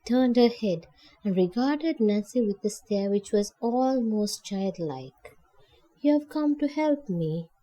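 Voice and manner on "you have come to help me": higher, wondering disbelief; unbelieving. Acted. Lonely old woman repeats Nancy's offer in mild disbelief. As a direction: echo it as if it can't be true. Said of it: "she repeated unbelievingly".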